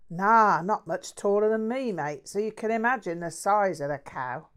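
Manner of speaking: a mouthy London bloke bragging; lightly voiced cheeky Cockney; Cockney mate. Jack voiced.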